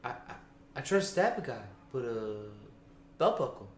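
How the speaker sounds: sleepy voice pitched high up. Retold or imitated. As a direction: raise the pitch, keep it drowsy. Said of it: "Higher pitched like that".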